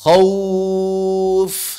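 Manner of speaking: Khauf drawn out with au, no u vowel; model reading. Shown as a demonstration. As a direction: stretch Khauf as khau-f. (Khauf dibaca panjang dengan au)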